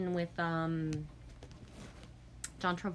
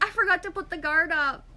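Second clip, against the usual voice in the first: mock panic; 10 semitones higher, 6 dB louder than usual. Confessing mistake to dad.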